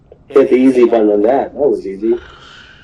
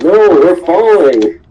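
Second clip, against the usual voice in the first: mock panic; 8 semitones higher, 4 dB louder than usual. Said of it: "Momu's like".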